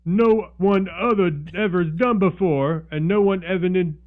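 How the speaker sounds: hammed-up made-up Aleppo accent. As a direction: fake a Syrian accent you don't know. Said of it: "should I do it in an Aleppo accent?".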